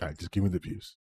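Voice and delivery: soft ASMR murmur close to the mic. Pretend. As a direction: murmur it gently like an ASMR video. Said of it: "a fucking A S M R video".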